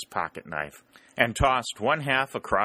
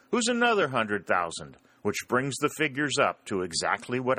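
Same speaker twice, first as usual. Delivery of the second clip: tall-tale banter; 5 semitones higher than usual. Acted. Jim boasting the army numbers to Bill, mock serious. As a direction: spin the tall tale with a straight face.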